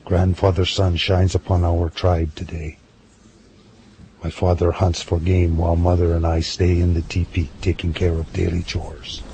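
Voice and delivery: steady, earnest storyteller reading a tribal diary; reading a girl's diary to a friend, calm storytelling; story narration. Acted. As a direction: read the old book aloud calmly. Reads a sacred book.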